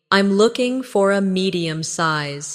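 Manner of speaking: slow repeat. Shown as a demonstration. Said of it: "Say it again slowly".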